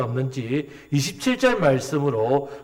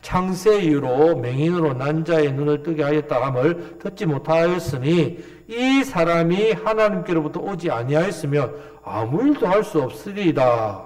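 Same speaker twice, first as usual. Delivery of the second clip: scripture reading. Acted. Preacher leading the congregation in a verse, solemn reading.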